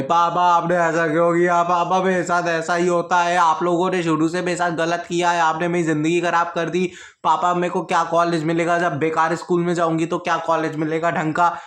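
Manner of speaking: mock sobbing at dad; crying protest. Daughter crying at dad over the school change, tearful. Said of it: "रोते गई".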